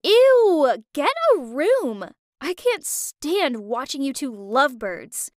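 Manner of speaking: grossed out by the lovebirds; whiny. Acted.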